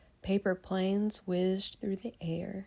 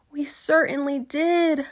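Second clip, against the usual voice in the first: loud, higher breathy cry; relieved kids; 8 semitones higher, 10 dB louder than usual. Acted. Kids overjoyed their teacher is back, loud breathy cry. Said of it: "cried all the kids".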